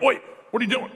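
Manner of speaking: high-pitched retold "stop!" call; retold challenge. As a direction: call out to a looter, re-enacted. Retells challenging a looter.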